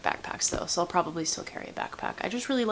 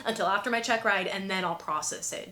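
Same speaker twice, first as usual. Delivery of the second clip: carefree voice; 9 semitones higher than usual. Retold or imitated. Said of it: "I'm like".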